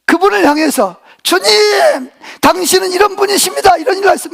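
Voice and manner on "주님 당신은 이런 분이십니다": high-pitched mock cry of praise; joyful crying out. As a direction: call up to the Lord, voice lifted but not full volume. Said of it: "막 소리를 지르고 싶은데". (기쁨에 겨워 높은 소리로 주님께 외치듯)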